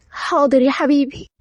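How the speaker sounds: understated sulky compliance; upset. Acted. Rose gives in to her sweetheart, mildly upset. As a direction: agree with a touch of hurt. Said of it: "روز بزعل".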